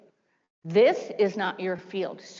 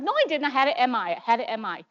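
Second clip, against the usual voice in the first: stubborn insistence; 3 semitones higher, faster than usual. Retold or imitated. Retold quarrel, insisting.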